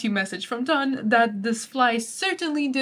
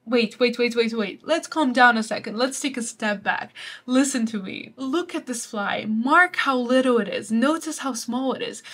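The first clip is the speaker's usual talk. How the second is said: mock urgent Donne. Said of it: "Donne just suddenly stops talking and says".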